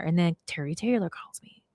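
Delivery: secretive story whisper; hushed whisper. Real, not acted. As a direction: whisper it as a dramatic aside.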